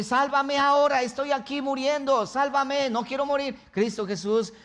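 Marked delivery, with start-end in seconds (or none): 0.0-3.6 higher, urgent begging; high-pitched cry for help, performed; acted desperate plea. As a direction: plead for rescue, mildly hammed-up. Acting Jesus begging to be saved.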